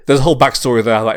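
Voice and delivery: talking loud through real laughter; laughing. Real, not acted. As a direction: laugh while explaining. Laughing at his own joke.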